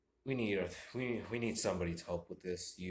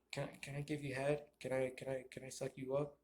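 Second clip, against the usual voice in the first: imitating women; 5 semitones higher, 6 dB quieter, faster than usual. Women approaching the coworker.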